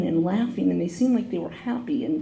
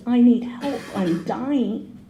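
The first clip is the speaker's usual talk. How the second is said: crying plea; 3 semitones higher, slower than usual. Retold or imitated. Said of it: "I just started to cry".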